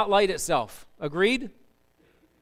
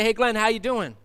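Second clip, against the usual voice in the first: loud, sincere hey to a friend; present greeting; 3 semitones higher, 3 dB louder than usual. Retold or imitated. Pastor greeting a friend while truly present, loud and sincere. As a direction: greet him like you mean it. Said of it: "I come over and I say".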